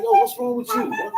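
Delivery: high, airy voice of a baffled onlooker; high breathy disbelief at honesty; incredulous bystander. Retold or imitated. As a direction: play the man who can't believe it. Retold man scolds honest customer.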